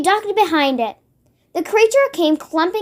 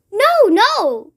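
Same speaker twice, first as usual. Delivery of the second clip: high pleading denial; frightened cry; 6 semitones higher, 3 dB louder than usual. A narrator's reading. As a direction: cry out in fear. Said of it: "cried the B F G".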